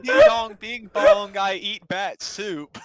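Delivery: high, loud mock Asian accent, laughing; hammed-up caricature of an Asian accent.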